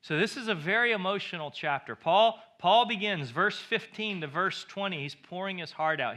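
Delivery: ordinary talk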